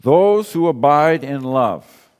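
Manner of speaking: each word laid out slowly and deliberately; slowed down. Shown as a demonstration. Preacher slowing the verse for the congregation, deliberate and measured. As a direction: let the phrase sink in, word by word. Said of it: "just slow that down".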